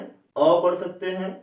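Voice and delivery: short अ sound, slow and clear; teacher modelling अ; a read as short a. Shown as a demonstration. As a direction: say अ as a short neutral a. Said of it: "ए को क्या पढ़ सकते हैं".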